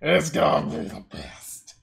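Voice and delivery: slow, put-on bro voice; party friend voice. Friends inviting her to get wasted, slow put-on bro voice. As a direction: play the hyped party friend, drawn out. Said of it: "sit there and be like".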